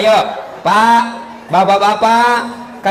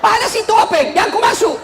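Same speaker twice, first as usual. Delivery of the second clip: shouted warning; 11 semitones higher than usual. Retold or imitated. Villager warns the man entering the lift, shouting high. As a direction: shout him back from the oven door. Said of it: "dia teriak".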